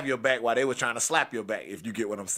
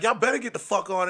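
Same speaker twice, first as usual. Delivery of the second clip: raised-pitch angry order; still losing it; 8 semitones higher than usual. Retold or imitated. Boyfriend telling two men to leave, still angry. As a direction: send them off in a high voice. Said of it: "still losing it".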